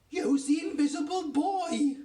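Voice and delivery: high, loud, stretched-out exclamation; squiffy with excitement. A narrator's reading. Daddy realising his son is invisible, wildly excited. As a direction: crow it in giddy amazement. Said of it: "he's squiffy with excitement".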